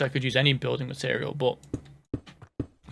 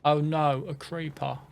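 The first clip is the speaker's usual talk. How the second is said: lightly mimicked British accent, "creeper" as "craypah"; British kid. Gamer replaying a favourite video line, British kid imitation. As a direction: repeat the British child's mock alarm. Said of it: "that British accent".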